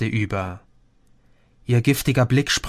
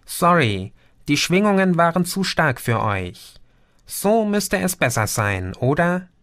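higher-pitched, lightly purred apology; contented purr; 5 semitones higher than usual. A narrator's reading. Green eases the vibrations in their heads, lightly purring. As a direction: soothe with a hint of a purr. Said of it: "schnurrte Green wohlig".

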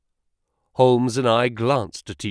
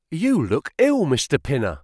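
high, startled exclamation; surprised exclamation; 3 semitones higher than usual. Acted. Clerk startled by his employer's face, high exclamation. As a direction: blurt it out in shock. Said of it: "he exclaimed".

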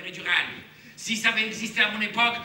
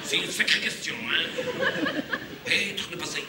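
put-on Hamlet puzzling in a Belgian accent; hammed-up Belgian Hamlet, baffled. Hamlet stumped by the question, in a Belgian accent. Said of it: "J'adore prendre cet accent".

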